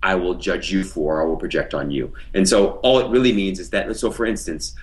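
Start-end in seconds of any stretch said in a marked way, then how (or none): 0.0-2.1 slow saying. Shown as a demonstration. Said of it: "Sometimes we say".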